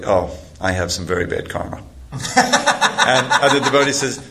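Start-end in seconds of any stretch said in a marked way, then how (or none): 0.0-1.8 mock dismay. Guard dismayed on reading karma caption.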